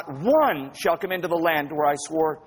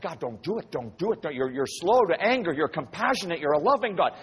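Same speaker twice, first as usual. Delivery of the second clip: imitating a man begging for mercy; pleading. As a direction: plead gently, as if talking someone down. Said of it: "Moses starts pleading with God".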